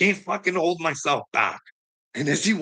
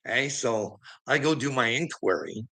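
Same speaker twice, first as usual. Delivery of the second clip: ordinary delivery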